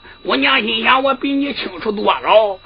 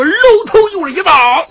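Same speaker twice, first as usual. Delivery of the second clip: excited; 8 semitones higher, 5 dB louder than usual. A narrator's reading. Storyteller acts the blade falling.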